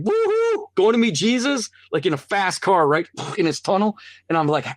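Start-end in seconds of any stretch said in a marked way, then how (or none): 0.0-1.7 high woohoo, then an eager line; thrilled cry of woohoo; joyful whoop. Retold or imitated. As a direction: whoop with glee, like flooring a fast car. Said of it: "And it's like".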